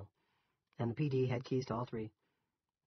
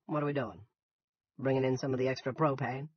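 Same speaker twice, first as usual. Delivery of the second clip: higher-pitched Yankee farmer; curious Yankee, a bit louder; thick Yankee accent; 4 semitones higher, 6 dB louder than usual. A narrator's reading. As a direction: ask in a Yankee voice. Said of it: "In his thick Yankee accent".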